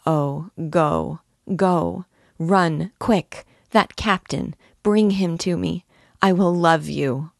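a lightly voiced, breathless plea of joy; a touch of joyful urgency, urging him to run; joyful cry. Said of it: "She uttered a cry of joy".

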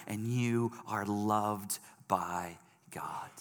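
hushed, slow whisper. Acted. Pastor assuring the listener of God's love, whispering slowly. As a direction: breathe it gently as a promise. Tender close to gospel appeal.

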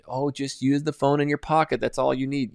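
high, airy marketer imitation; mock marketer voice. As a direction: mimic a breezy marketer pitch. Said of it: "marketers and people out there who".

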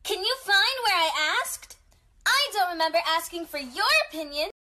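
sing-song cartoon explorer greeting; Dora impression. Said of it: "This is Dora the Explorer".

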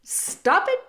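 high, loud furious rat; sudden high-pitched angry shout. A narrator's reading. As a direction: shout to break it up. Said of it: "shouted Roscuro".

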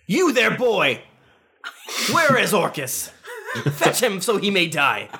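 lofty, commanding hero voice; haughty warrior voice. Acted. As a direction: bark it like a proud knight. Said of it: "I point Masamune at him and I say".

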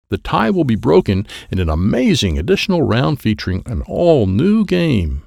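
big contest announcer delivery; game show announcer. Acted. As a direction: hype the tiebreaker to the crowd. Game announcer addresses the crowd.

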